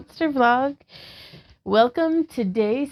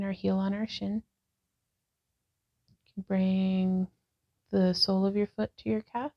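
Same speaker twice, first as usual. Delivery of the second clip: calm, even guiding voice, a touch softer; guided yoga instruction; 4 dB quieter than usual. Acted. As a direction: talk the class through each pose gently. Leads a yoga class.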